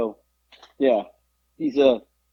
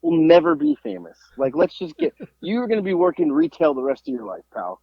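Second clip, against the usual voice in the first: mocking taunt; 5 semitones higher than usual. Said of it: "I'm like".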